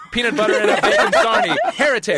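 very high, loud theatrical outrage; Ian McKellen. Acted. Host reads an outraged tweet aloud, hammed-up theatrical delivery. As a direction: declaim it like a grand stage actor. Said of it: "It's like Ian McKellen was doing it".

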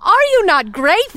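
1940s voice. Acted. Joins the 1940s bit.

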